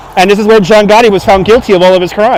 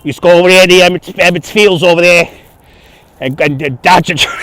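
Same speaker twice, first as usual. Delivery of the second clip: put-on comic old-Brooklyn storyteller accent. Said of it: "I learned my Brooklyn accent".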